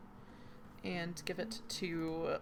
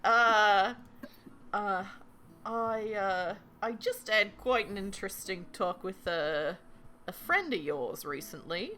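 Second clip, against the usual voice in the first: put-on Cockney accent. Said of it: "Can't do that accent either".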